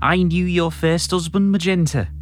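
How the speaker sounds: slow, mildly threatening Scouse villain; a half-hearted menace, drawn out; Sheikh Vizier. Acted. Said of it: "can you be a bit more, uh, threatening".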